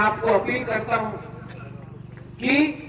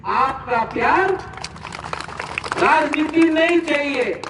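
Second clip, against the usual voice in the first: high, raised rally cry; impassioned public refusal, pitched up; emphatic declaration; 5 semitones higher than usual. Real, not acted. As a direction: call it out to the whole crowd. Emphatic refusal before rally crowd.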